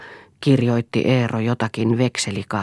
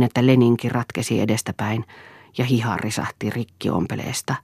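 plain reading voice

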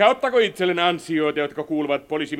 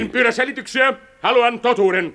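sharp, raised voice, higher; angry demand; 9 semitones higher, 5 dB louder than usual. Acted. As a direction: cut him off, demanding the truth. President berates war minister.

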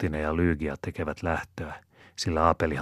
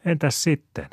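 much higher shrill little voice asking; shrill child voice; 11 semitones higher, 4 dB louder than usual. Acted. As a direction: squeak the question like a small boy. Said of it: "Jopin kimeä ääni kysyy".

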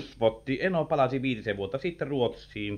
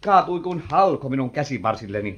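flustered alarm; 8 semitones higher, 6 dB louder than usual. Acted. Flustered over fainted woman.

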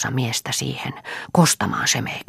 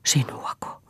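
stammering; 4 semitones higher than usual. Acted. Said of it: "sopersi Juha".

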